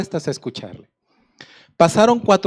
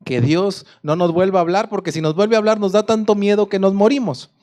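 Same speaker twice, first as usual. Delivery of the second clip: frightened pleading; 3 semitones higher than usual. Acted. Terrified Israelites begging Moses to stop God speaking, pleading. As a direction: beg Moses, scared, pressing each por favor.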